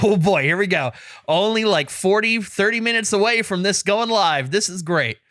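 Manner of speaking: lightly acted eager anticipation; retold excitement. Waiting for pre-orders to go live, excited. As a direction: retell it with a lift of giddy hope. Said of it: "I'm all excited for that".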